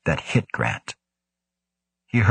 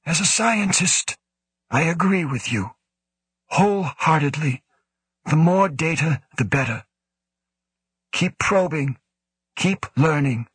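more reasonable tone; 9 semitones higher than usual. A narrator's reading. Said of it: "then said in a more reasonable tone".

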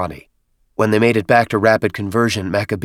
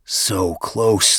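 groaned. Acted. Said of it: "the chieftain groaned".

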